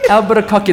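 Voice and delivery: "Albuquerque" as a Japanese speaker says it; Japanese-style pronunciation. Shown as a demonstration. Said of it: "That's how you say in Japanese".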